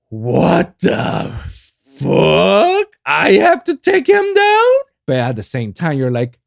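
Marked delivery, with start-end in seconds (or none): 0.1-4.7 shocked disbelief. Retold or imitated. Gamer shocked by boss monster.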